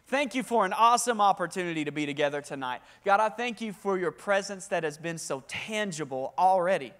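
pastor praying over the room before the sermon, earnest; spoken prayer. Acted. Leads the congregation in prayer.

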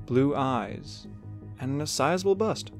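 ordinary delivery

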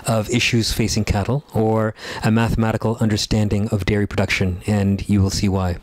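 put-on light Indian English accent. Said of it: "I'm using a little bit of an Indian accent".

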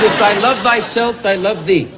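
slow, mock-pious preaching of nonsense; lightly voiced rabbi, solemn and slow; mock rabbi sermon. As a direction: play the pompous rabbi, drawn out. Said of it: "He said".

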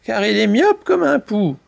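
animated, expressive storyteller; children's story narration. A narrator's reading. Mamie Poule tells chicks the canary's tale, lively narration. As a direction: tell it vividly to little listeners.

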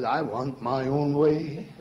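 slow, lightly voiced stubborn inner self; a hint of a willful voice inside. The self inside answers the hymn, lightly voiced stubborn. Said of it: "something in me said".

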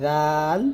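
"রাল" with tongue tip on the upper teeth edge. Shown as a demonstration. Teacher showing students a letter, "রাল" with tongue on upper teeth. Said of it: "রাল লাগবে জিহ্বার আগা".

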